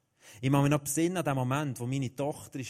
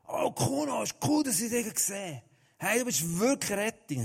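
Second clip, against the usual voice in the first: put-on high, eager hello to an old friend; excited greeting; 7 semitones higher than usual. Friend spots the preacher and calls out, much higher and excited. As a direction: greet him like a rescuer has arrived.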